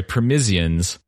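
«permissians» with a stretched "-ians" ending; mispronounced. Shown as a demonstration. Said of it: "Oh, sorry, permissians".

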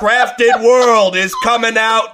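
slow, loud mock cowboy drawl; hammed-up American western voice, drawn out; John Wayne. Co-host mocking British attempts at American, exaggerated cowboy voice. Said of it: "talk like John Wayne".

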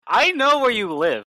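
high, slow creepy threat; mock threat. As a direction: menace her playfully.

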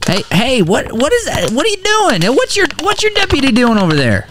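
high, rising panic; alarmed. Acted. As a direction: squeak out in shocked alarm. Cops searching his house.

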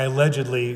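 "allegedly" picked out with emphasis; stress on ALLEGEDLY. Real, not acted. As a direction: lean pointedly on "allegedly". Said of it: "emphasis on allegedly".

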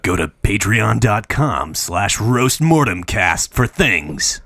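slow, deep trailer announcer voice; movie trailer voice. Pretend. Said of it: "Do it in your voice".

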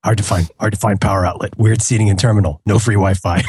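low terse gruff read; clipped grim vigilante diary; Rorschach voice. Retold or imitated. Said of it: "anything's funnier when you".

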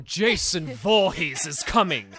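playing a scared horror victim, half-joking; mock panic. Friends riffing on a slasher film, mock panic.

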